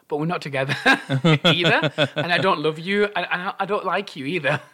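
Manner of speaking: laughing. Retold or imitated. Laughing through her retold reply.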